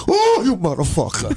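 hammed-up guttural growl at the dumb apprentice. Uncle's boss snarling at a clueless new worker, mock guttural. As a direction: growl it like you want to strangle him. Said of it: "like a guttural".

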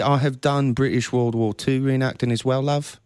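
put-on lightly done British accent, flirty. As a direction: answer the host in a put-on British reenactor's accent. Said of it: "Do you ever use your accent".

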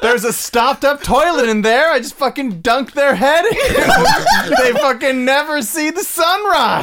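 high, loud, laughing through the words. Pretend. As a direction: cackle through a gleeful rant. Gleeful murder fantasy, laughing.

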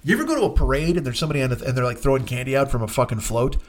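ordinary talk

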